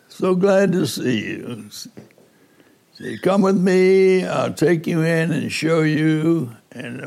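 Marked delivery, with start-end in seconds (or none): 0.1-1.7 imitated Cuban-accented welcome. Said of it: "in his Cuban, uh, accent". 3.2-6.5 put-on higher, eager Cuban-accented invitation. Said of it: "in his Cuban, uh, accent".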